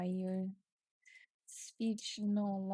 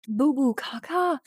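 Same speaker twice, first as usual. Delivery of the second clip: high, loud panicked scream of gibberish; frantic screaming at the mean girls; 7 semitones higher, 9 dB louder than usual. Acted. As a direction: scream it from the top of your lungs. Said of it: "You scream from the top of your lungs".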